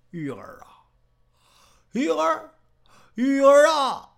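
drawn-out wail of her name, swelling to a loud cry; keen for her like a man falling apart; hammed-up wailing. Kneeling Jinxiu wails for Yu'er to come back, staged sobbing wail. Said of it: "哭了".

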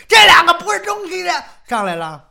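high, fast furious yell; cursing. A narrator's reading. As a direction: explode into a shrieked insult. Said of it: "正骂呢".

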